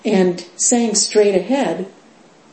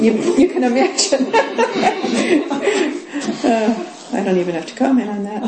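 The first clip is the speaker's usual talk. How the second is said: laughing through words; 6 semitones higher, faster than usual. Real, not acted. Laughing at the monk story.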